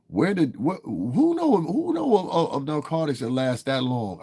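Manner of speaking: high, incredulous stammer. Real, not acted. Streamer questioning chatters about long-lasting drugs, incredulous. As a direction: pitch it way up in disbelief.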